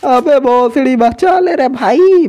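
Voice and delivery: high, panicked begging for rescue; frantic pleading. Real, not acted. Gamer begging teammate Kailash to save him, high frantic plea.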